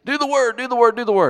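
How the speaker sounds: loud, high repeated command; preacher drilling the phrase into college kids, loud; urging youth. Retold or imitated. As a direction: hammer it at them over and over. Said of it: "you tell these youth".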